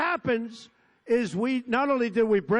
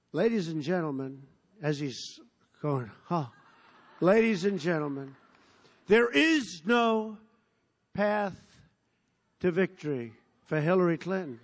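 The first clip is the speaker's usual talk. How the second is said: shaky broadcaster; 3 semitones lower than usual. Retold or imitated. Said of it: "And he goes".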